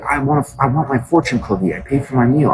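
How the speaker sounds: mock demanding diner; imitating a whiny customer. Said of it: "They're like".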